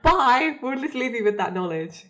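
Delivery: lightly acted breezy exit; breezy mock farewell. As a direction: toss off a cheeky goodbye with a chuckle. Voicing fake Dean's cheery exit.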